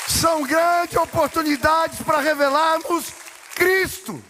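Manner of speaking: preaching at full force. Acted. Pastor driving home his point to the church, high and slow. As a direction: lift the congregation to the word Cristo.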